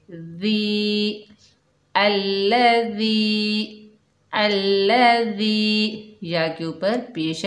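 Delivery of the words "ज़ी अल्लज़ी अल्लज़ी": अल्लज़ी said slowly with a soft, gentle ज़; careful slow अल्लज़ी with a gentle ज़; soft dhal demo. Shown as a demonstration. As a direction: stretch अल्लज़ी slowly, easing softly into the ज़. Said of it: "नरमी से अदा करेंगे".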